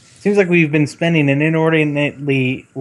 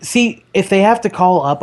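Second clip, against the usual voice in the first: ordinary talk, nothing marked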